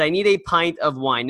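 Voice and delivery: a hint of a French accent on this line. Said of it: "or at least with a French accent".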